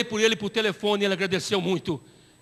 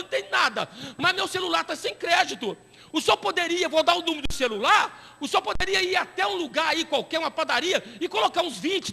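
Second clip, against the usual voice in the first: higher, lightly voiced smooth talker; sweet-talking caller; 4 semitones higher than usual. Caller sweet-talking the pastor for phone credit, higher. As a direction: coax him for phone credit. Prisoner's scam call voiced.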